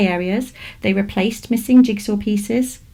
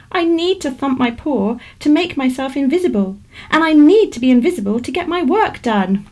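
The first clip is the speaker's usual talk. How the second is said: rabbit voice; 5 semitones higher, 3 dB louder than usual. Acted. Rabbit explains invisibility.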